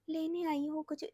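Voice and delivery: very soft, feeble murmur; soft imitation of a weak, tired woman; faint weak voice. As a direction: barely get the words out, drained. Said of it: "ऐसे करके literally".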